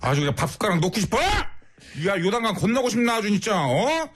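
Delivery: hammed-up furious telling-off with sudden shouts; mock angry rant. On a listener's request, chewing out a rude male driver in a hammed-up angry rant. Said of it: "화 좀 내주세요".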